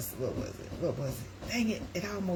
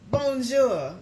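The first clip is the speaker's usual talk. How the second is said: French hello; 7 semitones higher, 7 dB louder than usual. Shown as a demonstration. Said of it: "I can say a little bit".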